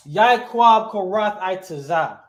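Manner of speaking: Yaakov first, then Korath, then Itazah, slow and loud; emphatic, slow wrong-order example; wrong word order. Shown as a demonstration. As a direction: slowly spell out the mistaken order, name first. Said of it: "I would not say it like that".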